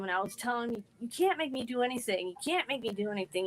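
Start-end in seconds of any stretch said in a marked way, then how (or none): 1.0-2.3 mild mock yell, slightly raised; defiant but understated, no real shout; retold scream. Cornered girl recalling yelling at bullies, mild mock defiance. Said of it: "I was screaming and yelling at 'em". 2.3-3.5 quicker, softer repeat of the protest; retold scream. Cornered girl repeating protest to bullies, quick and subdued. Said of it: "I was screaming and yelling at 'em".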